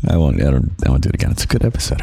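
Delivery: usual speaking voice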